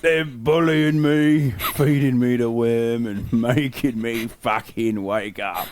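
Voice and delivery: a sleepy frog complaining about the humans; grumpy frog voice. Acted. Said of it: "Go do that voice with a close-up".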